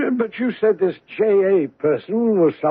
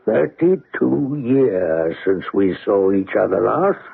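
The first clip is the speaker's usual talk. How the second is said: put-on cringing old sailor; 10 semitones lower, slower than usual. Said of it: "a cringing manner".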